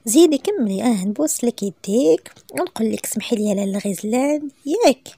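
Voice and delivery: playful sneering tease; mocking. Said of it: "يحيى كيطنز".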